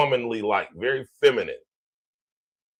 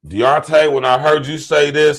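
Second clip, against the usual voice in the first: calling out loud; 3 semitones higher, 6 dB louder than usual. Real, not acted. Calls out cohost after "stop.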